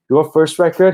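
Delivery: put-on high, loud drunk questioning; drunk fan voice. Drunk fan asking the singer about their record. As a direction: quiz the band like a tipsy fan.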